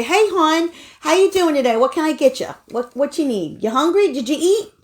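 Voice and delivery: put-on high, friendly Baltimore accent greeting; a waitress's Baltimore accent, a bit out of practice. Greeting a diner as a Baltimore waitress, in a Baltimore accent. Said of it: "you gotta practice that accent".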